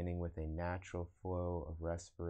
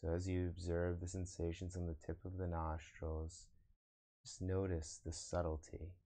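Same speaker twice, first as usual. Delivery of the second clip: guided meditation. Acted. Meditation teacher guiding online viewers to observe the breath, guided meditation. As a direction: lead them into breath awareness, unhurried.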